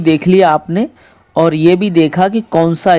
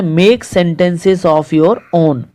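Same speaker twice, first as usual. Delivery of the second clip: slow reading aloud; much slower than usual. Shown as a demonstration. Teacher reads instruction slowly.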